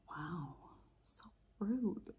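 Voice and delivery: soft, breathy scoff; whispered snark. Retold or imitated. Mocking the closing guy under her breath. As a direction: whisper the dig.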